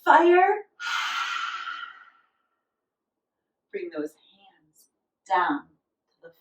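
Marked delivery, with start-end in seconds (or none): 0.1-3.7 playful dragon fire. Pretend. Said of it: "we're gonna blow fire with our tongues out". 3.7-4.9 dragon breath out. Pretend. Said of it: "we're gonna blow fire with our tongues out".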